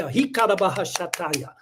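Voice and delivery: hammed-up fake tongues babble; mock speaking in tongues. Streamer mocking happy evangelicals with fake tongues. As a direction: parody a church member in tongues.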